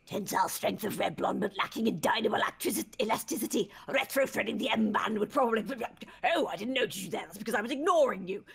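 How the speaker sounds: lightly voiced eccentric scientist; haughty mad scientist, muttering to himself. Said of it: "That was a great voice".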